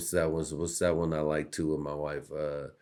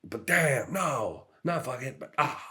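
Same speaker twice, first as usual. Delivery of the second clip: higher anguished mock voice; 8 semitones higher than usual. Comedian imitating himself reading the news, higher anguished voice. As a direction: agonize over the news, half-joking. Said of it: "be like".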